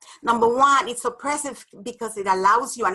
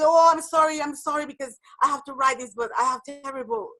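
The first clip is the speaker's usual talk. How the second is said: over-apologetic presenter; 4 semitones higher, 4 dB louder than usual. Retold or imitated.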